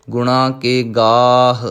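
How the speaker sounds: slow, measured chanted recitation of gurbani; scripture recitation. Acted. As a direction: recite each line slowly and devoutly. (ਹੌਲੀ ਹੌਲੀ ਗੁਰਬਾਣੀ ਦਾ ਪਾਠ)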